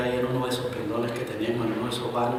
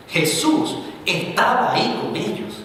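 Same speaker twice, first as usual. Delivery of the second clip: slow, breathy hushed preacher line; hushed emphasis; 7 semitones higher, slower than usual. Real, not acted. Preacher hushing the congregation for weight. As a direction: lean in and hush it slowly.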